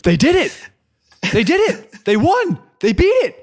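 thrilled shout in the office at the news; ecstatic shout. Retold or imitated. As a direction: yell the victory across the office. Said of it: "I just went".

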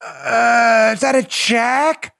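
slow, dim-witted puzzling, rising at the end; baffled voter. Acted. Mocking liberal reading a ballot, slow baffled question. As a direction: puzzle it out very slowly.

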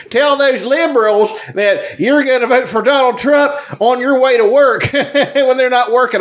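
high hollering hick impression; mocking redneck voice. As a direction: shout it like a dumb redneck. Mocking Duck Dynasty guy on stage.

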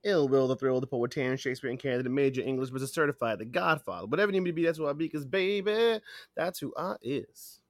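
rattled-off roll call of titles, slowing at the end; hype self-introduction. Acted. Co-host introducing himself to listeners, rhythmic hype roll call. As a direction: reel off the nicknames, then land the tagline.

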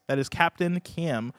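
slow and clear. Shown as a demonstration. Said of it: "with three M's".

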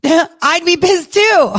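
high, drawn-out words through real laughter; laughing. Real, not acted. Host sides with the accused man, laughing in high-pitched amusement. Laughs while siding with him.

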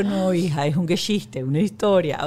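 reassuring mother. Retold or imitated. Mother reassuring her daughter it was a joke, soothing. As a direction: talk the child down, pitched low.

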